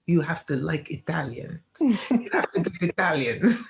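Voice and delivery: high-pitched playful insistence; insistent friend. Retold or imitated. Friend pushing her toward Italians, playfully insistent. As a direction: imitate a friend urging you, voice lifted.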